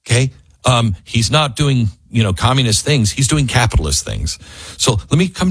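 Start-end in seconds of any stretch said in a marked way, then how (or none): none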